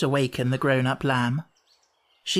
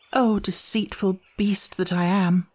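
slow, slightly higher self-reproach; self-reproachful aside; 5 semitones higher than usual. A narrator's reading. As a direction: scold yourself as an aside. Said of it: "she added to herself".

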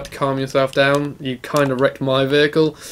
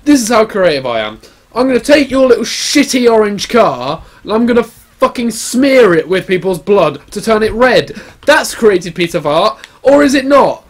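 mock-angry rant; 6 semitones higher, 6 dB louder than usual. Ranting at hipster about being creative.

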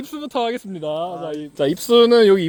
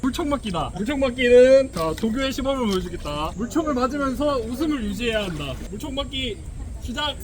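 stern army drill sergeant; korean military style. Pretend. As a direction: drill instructor barking orders. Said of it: "군대식으로 하면 안 되나요".

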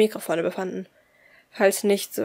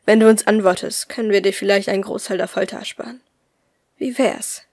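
menacing kidnapper, cold and pressing; lightly voiced menacing villain; cold interrogator; 7 dB louder than usual. Villain Nummer null speaks.

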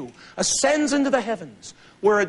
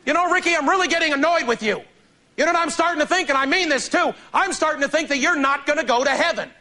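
higher, tight mock scolding of a little brother; annoyed brother; 6 semitones higher than usual. Brother losing it with Ricky at the dinner table, annoyed scolding. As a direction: imitate a preachy brother losing patience. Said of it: "He just loses it".

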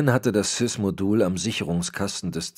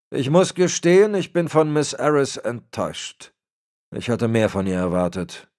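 lightly voiced stern old man, higher and louder; disappointed superior laying down the law; a hint of a menacing patriarch; Berlitz, cold old boss; 8 semitones higher, 8 dB louder than usual.

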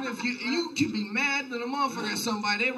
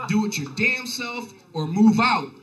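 slow, louder reading of mom's note; mock mom letter; 4 dB louder, slower than usual. Reading his mom's letter aloud, slow and scolding. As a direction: read it like a scolding mother, slowly. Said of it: "It said".

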